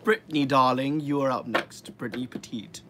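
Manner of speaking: lightly put-on news anchor read; newscaster voice. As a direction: announce it like the evening news. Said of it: "Do you like my newscaster voice?".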